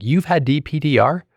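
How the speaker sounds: disbelieving question, pitch jumping high; retold shocked disbelief; surprised. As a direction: hit "You've had" high in amazement. Shocked friend has had DPDR too.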